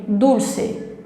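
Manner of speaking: "Dulce" with a clearly sounded L, for repeating; emphasized L. Shown as a demonstration. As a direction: model "Dulce" for learners to copy. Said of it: "tenta, fala comigo". ("Dulce" com o L bem pronunciado)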